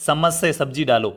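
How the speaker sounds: "चम्मच" said as "sammas", s replacing ch; mispronounced "चम्मच". Shown as a demonstration. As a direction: slur the ch of "चम्मच" into s. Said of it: "अगर मैं सम्मस कह रहा हूँ". ("चम्मच" को "सम्मस" बोलते हुए गलत उच्चारण)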